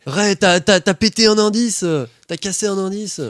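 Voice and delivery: high-pitched, loud scolding; yelling. Acted. Eddie accusing Ray of breaking a clue, outraged yelling. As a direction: yell the accusation, stumbling in outrage. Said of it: "t'as Eddie qui se met à hurler".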